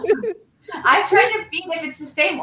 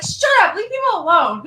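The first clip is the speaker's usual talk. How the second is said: mock snap back; 7 semitones higher, 5 dB louder than usual. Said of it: "I'm like".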